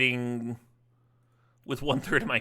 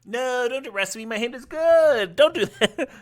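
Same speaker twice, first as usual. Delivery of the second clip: high, laughing plea not to arrest his hand; mock pleading; 9 semitones higher, 6 dB louder than usual. Streamer mock-begging the opponent not to arrest his hand, laughing and high. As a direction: playfully beg the opponent to spare the hand.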